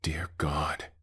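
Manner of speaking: frightened whisper that carries; too-loud whisper. Acted. Eli in the tower, terrified, a loud whisper. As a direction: breathe it out in terror, a little too loud. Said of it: "Eli whispered too loudly".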